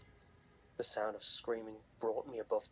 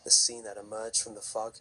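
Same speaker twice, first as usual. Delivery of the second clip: story narration. A narrator's reading. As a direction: tell it like a campfire horror story.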